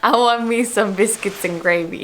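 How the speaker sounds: copying a Southern accent phrase; learner's imitation of Southern English; attempted Southern accent. Shown as a demonstration. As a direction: repeat it in a put-on Southern accent. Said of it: "you say it and I repeat it".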